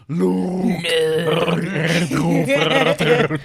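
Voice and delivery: slow, loud, warbling fan voice. Pretend. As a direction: speak through a spinning fan. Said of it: "my Chewbacca mixed with my Darth Vader impression".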